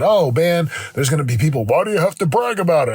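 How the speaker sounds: lightly mocking a commenter's objection; mock complaint. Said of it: "and someone said".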